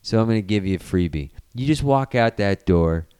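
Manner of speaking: lightly voiced low, measured threat; menacing dad villain. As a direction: offer a deal with a threat underneath. Villain's threat to teen, acted.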